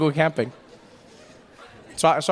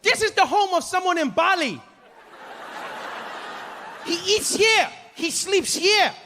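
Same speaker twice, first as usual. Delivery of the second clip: much higher, chirpy guide patter; overly happy tour guide; 11 semitones higher, slower than usual. Retold or imitated. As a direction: sell it like an eager tour guide. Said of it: "he's like".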